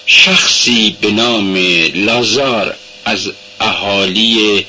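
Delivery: slow, choked reading forcing out each word; girl forcing herself to read aloud; strained reading. Acted. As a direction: read as if the throat is closing. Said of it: "بالاخره با کوششی خواند".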